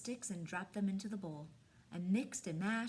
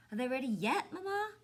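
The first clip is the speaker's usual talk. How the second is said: put-on pleading child, Mama pitched higher; eager boy; 4 semitones higher, 5 dB louder than usual. Buddy begging Mama about the tea cakes, eager whine. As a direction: whine it like an impatient little boy.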